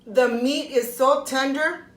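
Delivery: talking while chewing; mouth full. Real, not acted. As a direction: speak through a mouthful of food. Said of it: "Excuse me".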